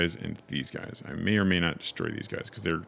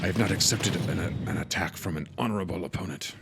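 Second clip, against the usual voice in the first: lightly voiced anime hero; a hint of a noble anime character. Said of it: "I did an anime voice there".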